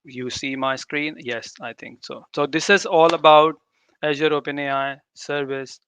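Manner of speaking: ordinary delivery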